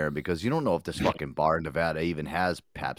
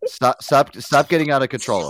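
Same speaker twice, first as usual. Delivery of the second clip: shouting match; 6 semitones higher, 6 dB louder than usual. Acted. Arguing over yelling on call.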